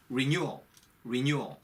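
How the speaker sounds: renewal ending with tongue tip touching behind upper teeth; pronunciation demo of renewal; final L in renewal. Shown as a demonstration. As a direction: tap the L at the end of renewal. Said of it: "L 발음은요 ... 한번 딱 대이는 거죠".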